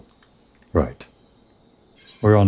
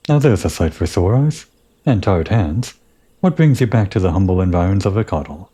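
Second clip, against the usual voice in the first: proud engineer; 3 semitones higher than usual. Acted. Engineer greets returning adventurer.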